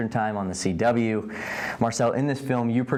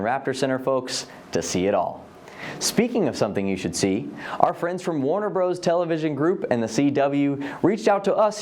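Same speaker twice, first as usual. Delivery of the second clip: lively scripted TV host read; upbeat show-host link with lifted pitch swings; presenter link; 4 semitones higher than usual. Acted. Host thanks the raptor center and introduces a special, presenter link.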